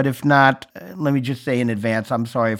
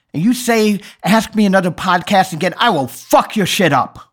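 mock furious threat, a touch higher; retold angry yell; 6 semitones higher, 3 dB louder than usual. Yelling a threat at his phone. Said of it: "I actually yelled this out".

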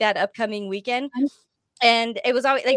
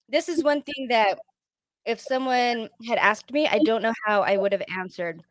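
talking around a mint; mouth full. Real, not acted. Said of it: "I got a mint in my mouth".

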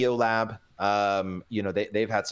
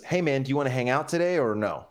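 light, quick, easygoing ask; casual friendly invite; 3 semitones higher, faster than usual. Retold or imitated. Guy texts his friend about hanging out, casual and friendly. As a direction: toss it out as a breezy invitation. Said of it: "he's hearing it one way".

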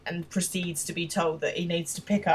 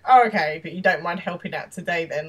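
retold sarcasm with a loud, raised OH; mock-agreeable, leaning hard on the opening; heavily sarcastic; 6 dB louder than usual. Jim, annoyed by Will's attitude, sarcastically asking for help. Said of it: "like, really heavily sarcastic".

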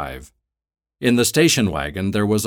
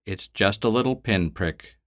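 calmer voice; 2 semitones higher than usual. Acted. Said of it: "in a calmer voice".

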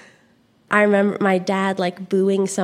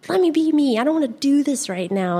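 higher-pitched mock protest; rebelling; 6 semitones higher than usual. Daughter rebelling against stage parents, mock protest. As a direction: push back like a fed-up kid, lightly acted. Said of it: "kinda rebel and be like".

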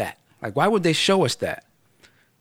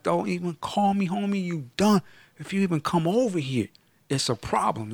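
cutting him off; 4 semitones higher than usual. Pretend. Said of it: "I was like".

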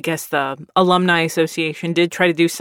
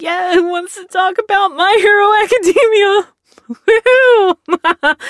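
much higher, louder fake-bright teacher voice; forced cheerfulness; 13 semitones higher, 5 dB louder than usual. Left alone with the class, covering awkwardness with high forced cheer. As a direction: cover the awkward silence with over-the-top cheer.

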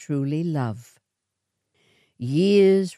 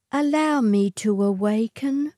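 put-on lightly higher pleading young woman; pouting plea; 6 semitones higher than usual. A narrator's reading. Matilda pleads with the swagman, pouting. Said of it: "she pleaded, pouting".

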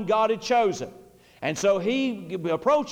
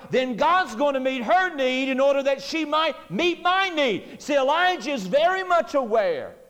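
full-force preaching; 4 semitones higher than usual. Acted. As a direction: build the sermon to a climax, driving each line.

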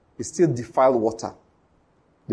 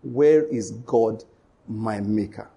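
slow, lower, fading question; slow lament; 4 semitones lower, much slower than usual. Retold or imitated. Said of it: "No one says".

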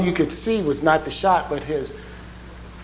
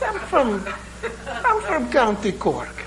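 high Irish brogue with a laugh in it; mock Irish brogue; 9 semitones higher than usual. Second Irishman insisting he's from Cork, laughing mock Irish brogue. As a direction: put on a Jamaican-tinged Irish accent, higher. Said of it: "my Irish brogue sounds a lot like Jamaican".

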